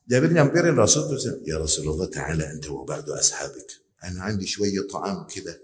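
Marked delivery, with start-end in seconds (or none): 1.5-5.5 low, hushed and softer; whispering. Retold or imitated. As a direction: say it under your breath so others won't hear. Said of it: "Bisik-bisik sama Rasul".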